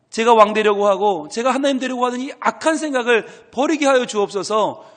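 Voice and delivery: loud, high, fervent cry to God; crying-out prayer. Shown as a demonstration. Preacher demonstrating loud crying-out prayer to God, fervent shout. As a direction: call out to God at full force. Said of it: "부르짖어 기도해야 돼요".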